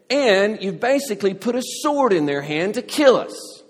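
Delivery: bitter sarcastic thanks rising to a loud outburst; sarcastic complaint building to an angry cry. Retold or imitated. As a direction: throw the thanks back at them with bitterness. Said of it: "You can just hear the sarcasm and bitterness in their voice".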